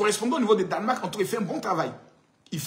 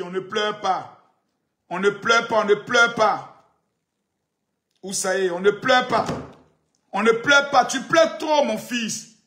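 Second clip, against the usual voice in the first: mock comforting. Mocking rival as crying child.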